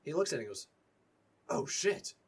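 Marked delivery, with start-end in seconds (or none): 1.5-2.1 a startled higher curse; police captain shocked by the dead goblin; alarmed. Acted. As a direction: jolt at the sight of it.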